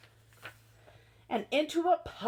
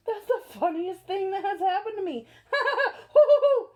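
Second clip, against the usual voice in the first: laughing through the words, hooting at the end; laughing elephant; 4 semitones higher, 6 dB louder than usual. Acted. Elephant giggling at his own lost sneeze, laughing words. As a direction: laugh helplessly as you talk. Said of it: "He began to giggle".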